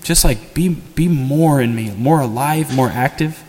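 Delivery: heartfelt prayer. Shown as a demonstration. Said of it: "We'll take a little time to pray".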